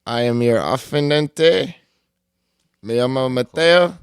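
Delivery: slow, loud ring announcer in Spanish; lucha libre announcer. Pretend. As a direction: boom it out like a wrestling emcee. Podcast host's mock Spanish intro.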